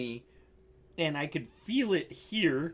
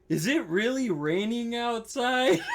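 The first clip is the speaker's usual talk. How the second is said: retold through laughter; 4 semitones higher than usual. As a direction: question rising into a laugh. Quoting tripping friend, breaking into laughter.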